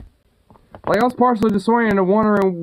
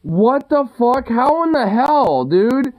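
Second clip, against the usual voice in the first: disbelief; 6 semitones higher, slower than usual. Real, not acted. Friend's handlebar half missing.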